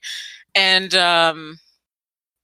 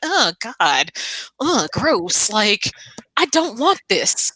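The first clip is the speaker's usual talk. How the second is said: disgusted groan; 3 semitones higher, slower than usual. Retold or imitated. Retold disgusted reaction.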